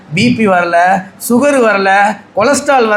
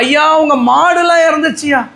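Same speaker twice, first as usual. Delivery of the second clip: servant crying out the bad news, pitched up; panicked servant; 5 semitones higher than usual. Servant bursting in on Job with news, crying out. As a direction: call out to the master in alarm.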